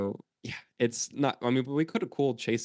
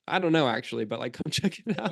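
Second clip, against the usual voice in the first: pirate voice; 4 semitones higher than usual. Retold or imitated. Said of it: "And he's like".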